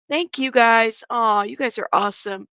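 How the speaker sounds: breathless, winded talking; out of breath. Real, not acted. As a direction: speak while catching breath. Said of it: "I'm out of breath".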